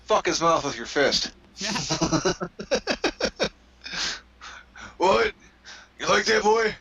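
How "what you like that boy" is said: higher, rough-edged redneck bluster; mock redneck wrestler. Mocking a wrestler on TV, redneck bluster. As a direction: ham up a beer-swilling brawler. Voicing a wrestler mid-match.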